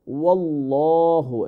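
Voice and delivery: "ওয়াল্লাহু" with heavy, rounded, long "lloo"; full-mouth Allah. Shown as a demonstration. Teacher showing the word Allah, full-mouthed drawn-out "ওয়াল্লাহু". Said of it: "আল্লাহ ওয়ার্ডটা always ফুল mouth হবে".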